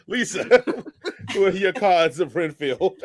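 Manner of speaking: slow question through laughter; real laughter in the voice; laughing. Real, not acted. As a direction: ask it while still cracking up. Host cracking up while asking.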